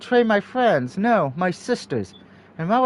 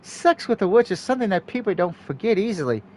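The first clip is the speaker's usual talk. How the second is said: wicked teasing; 2 semitones higher than usual. Acted. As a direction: purr it out wickedly. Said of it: "wicked smile".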